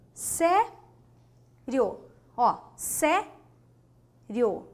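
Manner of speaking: sério stretched very slowly; drawn-out demo. Shown as a demonstration. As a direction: draw out sério to hear the syllables. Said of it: "Separemos a palavra sério". (sério pronunciado bem devagar)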